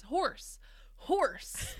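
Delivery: mock shout. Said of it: "all he can say to his captors is".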